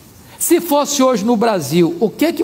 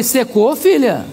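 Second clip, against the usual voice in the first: mild questioning echo, near usual pitch; slower than usual. Retold or imitated. Pastor checking the angry woman's word, questioning.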